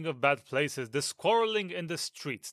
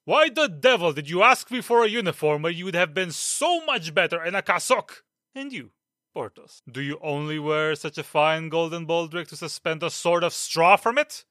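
angry scolding; 3 dB louder than usual. Acted. Captain berates Aramis and Porthos.

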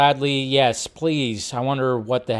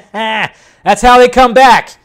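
slow and louder, laughing as you say it; laughing through it; 8 semitones higher, 9 dB louder, much slower than usual. Real, not acted. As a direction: laugh the words out slowly. Laughing at a silly movie pic.

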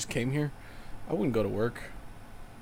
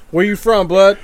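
higher, louder street challenge; gangster challenge; 7 semitones higher, 11 dB louder than usual. Retold or imitated. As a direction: call out a rival like a gangbanger. Gang-style challenge, joking.

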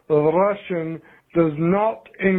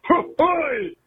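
mock slang; 9 semitones higher than usual. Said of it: "No, it's".

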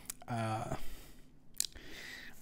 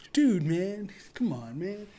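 higher, mock whine; whiny pleading guy; 6 semitones higher, slower than usual. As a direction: plead like a guy who wants no fight. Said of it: "And he sounded like".

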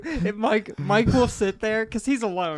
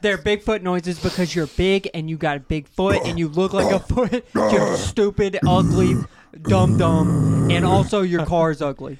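mock taunt; 2 semitones lower than usual. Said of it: "Is what you said to him".

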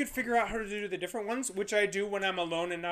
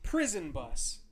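slow, higher indignant protest; slow outraged correction; 3 semitones higher, much slower than usual. Real, not acted. Indignant retort.

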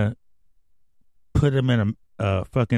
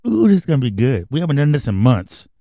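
louder, eager showman; gleeful host; 3 semitones higher, 5 dB louder, faster than usual. Acted. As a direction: relish the coming segment. Host gloating over the bit.

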